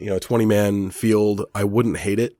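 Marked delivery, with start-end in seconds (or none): 1.5-2.4 whispered aside. Real, not acted. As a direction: whisper it like a confession.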